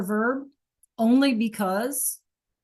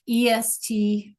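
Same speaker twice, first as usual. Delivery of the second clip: slow spelling; 2 semitones higher, slower than usual. Shown as a demonstration. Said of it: "So look".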